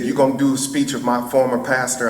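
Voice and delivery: quick, lightly imitated Alabama accent; Rosa Parks. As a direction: question him briskly with a touch of Alabama. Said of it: "in her Alabama accent".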